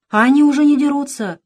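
put-on high, loud little boy; thin boy's voice. A narrator's reading. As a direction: pipe up in a thin child's voice. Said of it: "послышался тонкий голос Андрейки". (тонкий мальчишеский голос)

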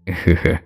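short understated laugh; a brief villain's chuckle, played lightly; big laugh. A narrator's reading. Thug amused by the job, short chuckle. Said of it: "Tư Mặt Sẹo cười lớn".

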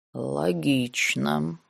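slow soft mutter under breath; muttered whisper. A narrator's reading. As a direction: mutter it to yourself. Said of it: "прошептал под нос Райдо".

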